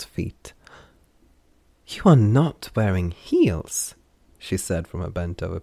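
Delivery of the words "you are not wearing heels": excited. Acted. Derry inspecting Lon's feet.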